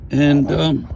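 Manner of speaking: talking from under the car, projecting up; lying under a car. Real, not acted. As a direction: speak up while lying on your back under a car. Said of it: "Look, I'm under the car".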